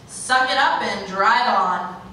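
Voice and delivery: slow, hard-driven military-style order; tough order. Acted. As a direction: order a recruit to push through. Military-style order voiced in monologue.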